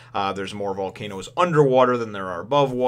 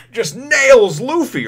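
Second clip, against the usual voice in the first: laughing it out, high and loud; giggling through the words, slow, much higher and louder; 13 semitones higher, 9 dB louder, much slower than usual. Real, not acted. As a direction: crack up mid-sentence.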